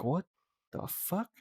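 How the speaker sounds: breathless whispered disbelief; whispered what the fuck. Retold or imitated. Telling friends his reaction, a stunned whisper. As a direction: let the fuck fall to a whisper. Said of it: "I was like".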